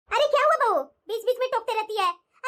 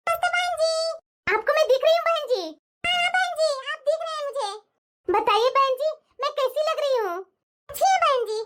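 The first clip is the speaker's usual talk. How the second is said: lightly voiced bahu's mother; 4 semitones higher, 3 dB louder than usual. Bahu's mother on video call.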